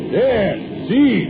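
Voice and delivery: high pointing call; mild holler. Retold or imitated. Bogdan replays calling Manus to the edge, high call. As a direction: call him to look over. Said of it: "I holler".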